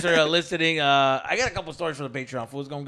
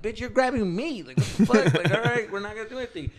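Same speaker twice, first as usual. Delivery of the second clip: retold protest; 7 semitones higher than usual. Pushing off her grabbing hands.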